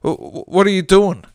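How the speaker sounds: a gangster spooked by ghosts; hint of terror. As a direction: stutter out the question in fright. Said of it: "with a hint of terror".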